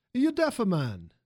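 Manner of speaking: drawn-out, moderately loud shout; scream. A narrator's reading. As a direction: holler at someone who isn't listening. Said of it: "the voice screamed at Father again".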